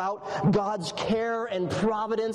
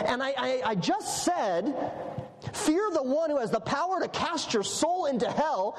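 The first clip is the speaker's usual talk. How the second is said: exasperated; 5 semitones higher than usual. Acted. Imagined Jesus exasperated at petty request.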